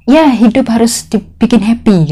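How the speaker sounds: lightly voiced happy boss; a hint of the breezy employer, upbeat; quoting carefree boss. Maid quoting her carefree boss, lightly upbeat. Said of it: "kayak gitu katanya".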